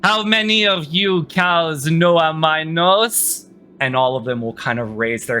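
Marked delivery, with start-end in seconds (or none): 0.0-3.5 slow, lightly projected queen's call. Acted. Queen to the chamber of captives, calling out. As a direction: address the whole room slowly, drawing words out. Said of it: "she calls out to the rest of the chamber".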